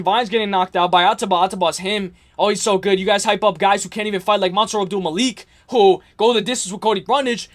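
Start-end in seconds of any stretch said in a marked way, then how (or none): none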